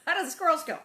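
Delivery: laughing question. Real, not acted. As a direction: ask it while laughing.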